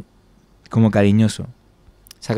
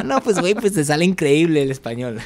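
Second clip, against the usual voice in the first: playful Colombian-Mexican lilt, a bit higher; Colombian accent; 7 semitones higher than usual. Retold or imitated. Joking with fans in a mock Colombian accent. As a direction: slip into a jokey Latin American accent. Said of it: "entrar hablando en colombiano".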